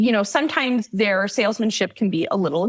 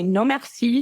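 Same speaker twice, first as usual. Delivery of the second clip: slightly raised French-accented refusal; 3 semitones higher than usual. Shown as a demonstration. Telling tourists what to answer bracelet sellers, French accent. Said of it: "in your best French accent".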